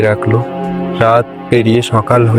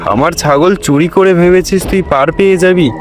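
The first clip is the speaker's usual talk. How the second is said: raised-pitch accusing threat; vengeful landlord; 5 semitones higher than usual. Acted. Landlord vowing revenge over stolen goat, higher accusing threat. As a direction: accuse the thief, pitch lifted. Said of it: "মনে মনে বলে".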